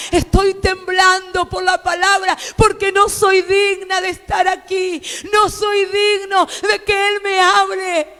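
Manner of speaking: más fuerte al cerrar con no soy digna; predicación intensa. Acted. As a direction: clama la humildad ante todos. Predicación a pleno. (predicador clamando humildad a la congregación)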